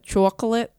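"Chocolate" with a broad "chwaw" first vowel; exaggerated rounded first syllable in "Chocolate"; Andrew's pronunciation. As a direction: attempt "Chocolate" as "chwaw-klit". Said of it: "I can't even do it".

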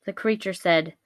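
ordinary delivery

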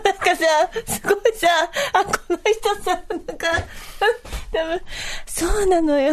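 high-pitched talk broken by audible breaths; sexy breathing. Shown as a demonstration. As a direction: imitate someone taking big breaths between short phrases. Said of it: "セクシーな息遣いでしょ".

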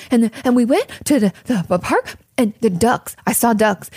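put-on breathless excited kid. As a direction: imitate a kid breathless from play. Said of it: "out of breath".

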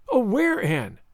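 high wail dropping on the name; sobbed. A narrator's reading. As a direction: wail anxiously to a friend. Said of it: "sobbed Carrie Sloane".

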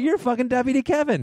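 high-pitched astonished recognition; retold amazed realization. Podcast host retelling how he recognized the actor, amazed. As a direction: blurt it out high, imitating your own astonishment. Repeating his moment of recognition.

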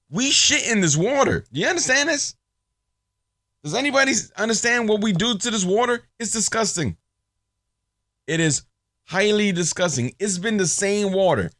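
high, ranting conspiracy-radio voice; Alex Jones impression. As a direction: rant like an outraged talk-radio host. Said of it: "my Alex Jones impression".

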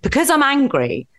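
retold snap. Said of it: "And I said".

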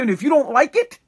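a mock dad throwing the kid out; angry dad voice. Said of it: "like my dad would say".

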